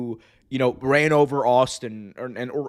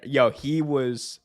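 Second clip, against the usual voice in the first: normal talking voice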